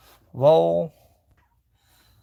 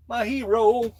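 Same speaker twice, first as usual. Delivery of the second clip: higher and louder, beaming; excited praise; 7 semitones higher, 5 dB louder, slower than usual. Pretend. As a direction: proclaim "My hero." up high with pride. Praises the figure.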